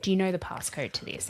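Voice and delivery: plain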